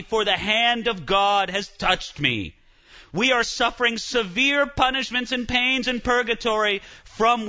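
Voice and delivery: hammed-up plea from the dead; pleading souls. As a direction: wail like the dead in purgatory. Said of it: "screaming and saying".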